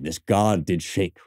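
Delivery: slow, "god" leaned on; slow savoring repeat; repeated for emphasis. Shown as a demonstration. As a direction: dwell on "god" again. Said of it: "What a line".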